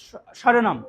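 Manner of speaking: স্বরনাম starting "sho", "shoronom"; tongue to the palate for the first sound of স্বরনাম; palatal sh. Shown as a demonstration. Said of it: "touch করতেছে কিনা দেখেন". (স্বরনাম-এর শুরুতে তালব্য শ)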